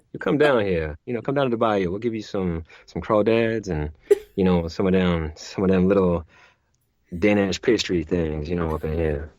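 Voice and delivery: an easy Louisiana bayou Cajun accent; a Cajun accent inviting someone down to the bayou for crawdads. Shown as a demonstration. A New Orleans visitor gets a bayou welcome in a Cajun accent. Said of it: "Let me hear it".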